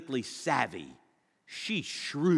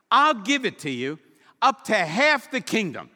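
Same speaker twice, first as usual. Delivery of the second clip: louder, higher grand royal promise; generous king; 5 semitones higher, 7 dB louder than usual. Acted. King Xerxes promising Esther half his kingdom, grand. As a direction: boom it out like a lavish monarch.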